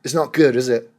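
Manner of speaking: put-on English accent, complaining. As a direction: mimic English people nitpicking in an English accent. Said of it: "for all the English people that are gonna say".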